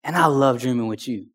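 God answering gently in prayer; gentle God's voice. Retold or imitated. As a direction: say it softly, like a loving father. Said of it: "I felt the Lord say".

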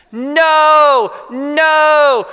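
high, loud panicked scream. Retold or imitated. Woman across the aisle screaming at the singer, loud scream. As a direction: yell it out in alarm. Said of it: "started screaming".

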